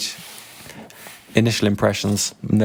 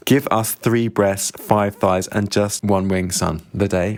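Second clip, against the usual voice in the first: put-on slow, spelled-out Scottish accent; slow the Scottish order down so it's understood; careful Scottish accent, word by word; clearer Scottish accent; slower than usual. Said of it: "I'll need to translate".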